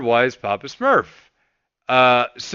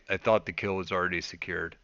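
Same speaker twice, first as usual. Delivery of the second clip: timid reply; 6 semitones lower, 11 dB quieter than usual. Retold or imitated. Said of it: "And then I hear".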